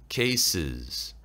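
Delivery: "cases" with a clear final -es; low, falling "cases", plural ending kept; plural ending sounded. Shown as a demonstration. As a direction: say both syllables of "cases". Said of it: "복수를 살려주세요".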